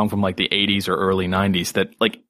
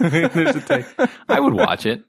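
laughing. Real, not acted. Repeating the line, laughing.

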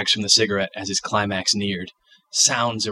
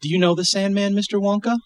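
put-on child voice; 11 semitones higher than usual.

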